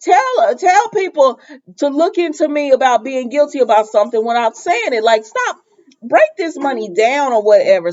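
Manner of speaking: high, incredulous mock rebuke; mock exasperated telling-off. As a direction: tell him off as if in disbelief.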